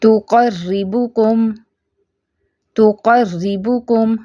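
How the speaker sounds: तुकर्रिबुकुम slow, with a thin doubled r; light ra. Shown as a demonstration. Teacher models a light ra, slow recitation. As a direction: keep the r in तुकर्रिबुकुम light, not heavy. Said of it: "रा light है".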